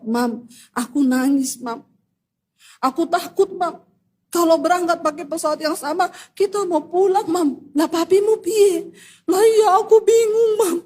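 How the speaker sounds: a touch of tearful whining; imitated crying child. Child messages mum, scared to fly, imitated crying. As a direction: plead to mum, lightly acting tearful. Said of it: "Saya lihat anak saya nangis begitu".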